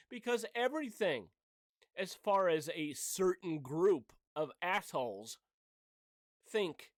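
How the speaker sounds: loud, heated rant that keeps climbing; annoyed rant. Real, not acted. Vlogger fuming at people who support censorship, loud annoyed rant. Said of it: "It really sounds like I'm super pissed about it".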